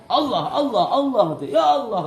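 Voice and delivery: high, loud mock moaning of a sick man; hammed-up whimpering to God; mock groaning husband calling on God; whining sick husband.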